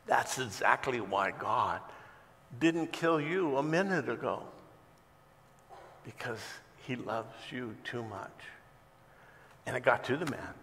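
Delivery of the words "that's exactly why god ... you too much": gentle reply. Retold or imitated. Old lady gently answers atheist.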